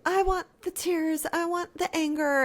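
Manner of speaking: high-pitched mock demand. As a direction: imitate someone insisting on what she wants, pitched well up. Voicing Naomi's demands in mock quote.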